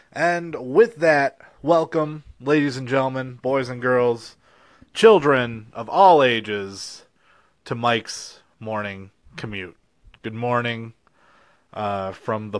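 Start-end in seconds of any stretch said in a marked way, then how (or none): 0.1-9.8 ringmaster. Acted. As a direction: announce it like a circus ringmaster. Circus-style welcome announcement.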